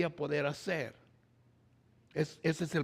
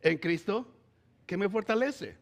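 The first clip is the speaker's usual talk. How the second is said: "Todo" raised and louder, proclaimed in full; proclaimed verse; 3 semitones higher, 5 dB louder than usual. Shown as a demonstration. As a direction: preach the verse out, loud and lifted. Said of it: "se dice". (versículo proclamado en voz alta)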